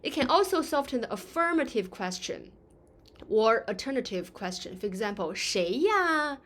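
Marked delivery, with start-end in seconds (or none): 5.3-6.4 gentle. Shown as a demonstration. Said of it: "be polite and soft the tone".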